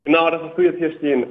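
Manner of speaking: caller on speakerphone; roomy speakerphone sound. Real, not acted. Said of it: "Hast du, äh, zufällig die Freisprechanlage deines Telefons an?".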